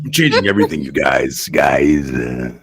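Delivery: mock impression dropping into a low lawnmower rumble; hammed-up celebrity voice, droning down like an engine; a pop star. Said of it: "sounds like a fucking lawnmower".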